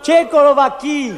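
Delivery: loud greeting shout. Retold or imitated. Entering the bar and greeting everyone, shouting. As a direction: call out loudly on entering. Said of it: "Je suis entré en criant".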